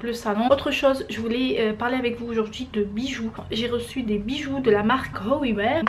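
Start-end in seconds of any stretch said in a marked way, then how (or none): 5.3-5.8 English brand name with a French accent; clumsy attempt at an English accent; bad English accent. Real, not acted. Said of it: "excusez mon accent anglais pourri".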